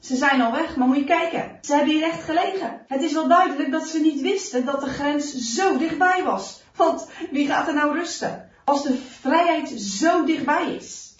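loud, emphatic reasoning; full-voiced soldier sure of himself. A narrator's reading. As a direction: argue it out forcefully to a comrade. Soldier calling out to his comrade.

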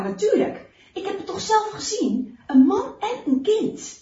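loud, high, testy soldier; heated, emphatic retort; irritated. A narrator's reading. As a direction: insist hotly that you saw it yourself. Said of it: "maakt een driftig gebaar".

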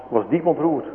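ordinary delivery

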